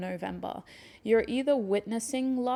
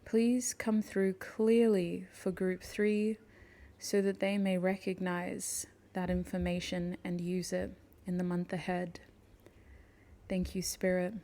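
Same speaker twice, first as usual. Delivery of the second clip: prayer to spirit. Acted. Invoking spirit in a reading.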